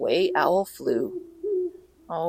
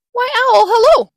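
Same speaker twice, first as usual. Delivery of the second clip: high, perky little mouse greeting; cheery mouse; 9 dB louder than usual. Acted. Mouse greets snake before the Gruffalo, high cheery squeak. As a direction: sing out hello in a high voice.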